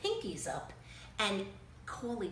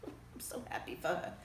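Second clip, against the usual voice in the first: excited whisper; 3 semitones lower, 4 dB quieter than usual. Acted. Reader sharing the family's news with kids, excited whisper. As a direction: hush the excitement like a secret.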